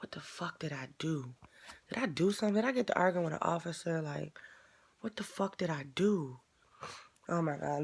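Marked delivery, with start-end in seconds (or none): 0.0-6.4 hushed, frantic muttering to herself; under-the-breath worried whisper; panicked whisper. Retold or imitated. Panicking inside at the intercom call.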